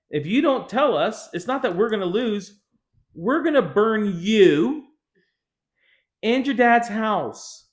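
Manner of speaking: mock villain threatening, drawn out; menacing threat. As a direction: threaten her slowly and heavily. Philistines threatening Samson's wife.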